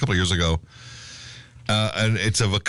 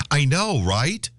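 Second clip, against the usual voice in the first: slightly raised pitch, lightly voiced device; imitated smart speaker piping in; 4 semitones higher, much slower than usual. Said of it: "the speaker pipes in and goes".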